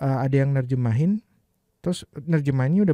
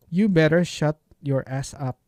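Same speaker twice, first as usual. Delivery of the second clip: slow demo reading; slower than usual. Shown as a demonstration. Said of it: "repeats line slowly".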